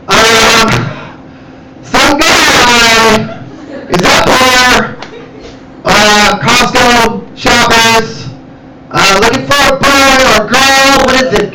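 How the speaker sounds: a hint of a halting store-PA voice; clueless announcer. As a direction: drag it out like a lost clerk on the mic. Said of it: "she was like".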